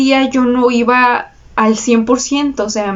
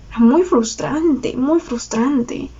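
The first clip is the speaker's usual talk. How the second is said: slow, softer, dragging each word; drawn-out frustration; 4 dB quieter, slower than usual. Real, not acted. Recalling endless video edits, slow and weary. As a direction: let the frustration sink in, slowly.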